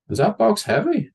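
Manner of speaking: put-on high, eager childish question; high chatty kid. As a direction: pipe it up, innocently nosy. Kid asking stranger.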